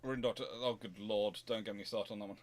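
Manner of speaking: ordinary talk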